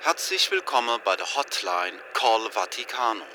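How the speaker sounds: recorded hotline menu announcement; phone menu voice. Acted. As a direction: read it like an automated phone menu.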